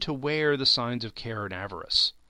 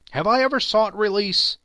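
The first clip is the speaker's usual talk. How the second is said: indignant question; 9 semitones higher, 7 dB louder than usual. Acted. Lovers' quarrel.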